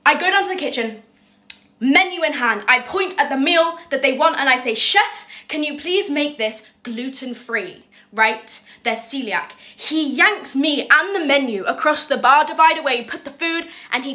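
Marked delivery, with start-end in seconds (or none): 4.7-7.8 lifted pitch on the name, then slow careful asking; drawn-out, cautious plea; tentative polite request. Retold or imitated. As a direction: ask the chef very carefully. Timid request to the chef.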